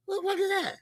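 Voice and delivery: high, startled what-is-that; shocked disbelief. Retold or imitated. Reacting to the fighter at weigh-in, high startled disbelief. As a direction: act out being stunned at the sight. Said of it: "I'm like".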